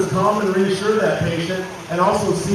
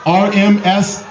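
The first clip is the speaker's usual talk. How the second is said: loud crowd announcement; announcer; 4 dB louder than usual. Real, not acted. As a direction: project to the stadium crowd. Announces mock crash to crowd.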